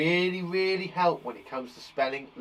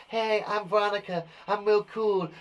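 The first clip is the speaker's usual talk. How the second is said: Veronica Verb voice; 3 semitones higher than usual. Pretend. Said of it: "say hello to my friend Veronica Verb".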